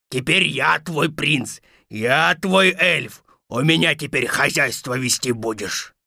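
lordly story wolf voice; bossy wolf. Acted. Wolf to captive Thumbelina, bossy. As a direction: claim your captive like a wolf master.

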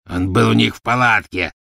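rasped. A narrator's reading. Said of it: "прохрипел Фенрир".

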